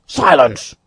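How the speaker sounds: stern hush. A narrator's reading. Athos silencing Porthos.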